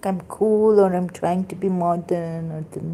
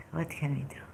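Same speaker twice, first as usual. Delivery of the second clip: resigned sigh; 15 dB quieter, faster than usual. Real, not acted.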